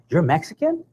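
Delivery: retold question with a rising note of surprise; surprised. Shuttle woman learning he is Mexican American, surprised. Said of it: "She's so surprised".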